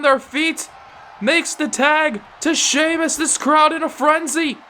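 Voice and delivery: fast, rising wrestling commentary; live play-by-play. Acted. Commentator calling the tag match for viewers, live play-by-play. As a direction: call every move as it happens.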